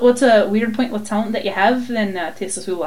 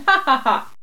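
mock laugh. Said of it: "I've been laughing".

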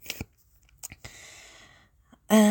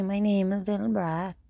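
lilting Welsh accent, a little higher; 3 semitones higher than usual. Shown as a demonstration. Showing off accents when bored, in Welsh. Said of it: "if I was Welsh".

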